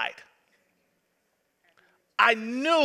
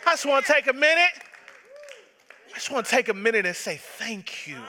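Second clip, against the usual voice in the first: grateful outburst to God; faster than usual. Retold or imitated. Preacher acting out his own morning prayer, building to a grateful shout. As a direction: rush the words and lift the last one to a shout. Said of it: "you're like".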